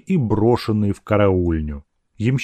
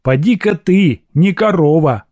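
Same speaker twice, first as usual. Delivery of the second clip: higher, louder offended grumble; grumbling; 6 semitones higher, 5 dB louder than usual. A narrator's reading. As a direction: grumble back at the insult. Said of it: "ворчала Аграфена". (обиженно ворча)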